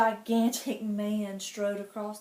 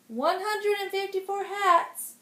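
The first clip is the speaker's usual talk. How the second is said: nervous gulp; 9 semitones higher, 5 dB louder than usual. Acted. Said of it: "gulped Sir Arlick".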